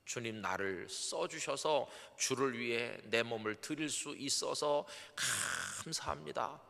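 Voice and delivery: slow, humble thanks to God; a new deacon humbly thanking God; humble prayer. Shown as a demonstration. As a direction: say it slowly and humbly. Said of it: "뻗팅기지 마시고".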